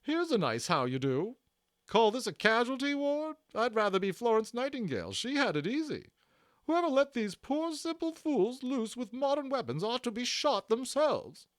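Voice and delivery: high, loud scolding nurse voice; high-pitched, loud, indignant nurse; bossy little nurse. Acted. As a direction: scold like a fussy matron. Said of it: "she exclaimed".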